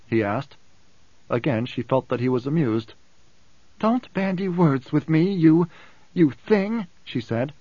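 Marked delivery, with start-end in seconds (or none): 3.8-6.9 higher, slow, seething reprimand; indignant rebuke. A narrator's reading. Alia rebukes the ghola for word games, indignant. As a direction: stumble on the insult, then hurl it.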